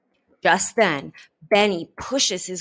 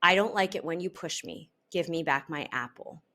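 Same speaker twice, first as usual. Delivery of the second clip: firm. Shown as a demonstration. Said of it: "She speaks slowly and firmly".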